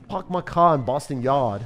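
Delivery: amateur Boston accent, dropping the Rs; attempted Boston accent. Shown as a demonstration. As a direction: have a go at a bad Boston accent. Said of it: "I don't have the Boston accent".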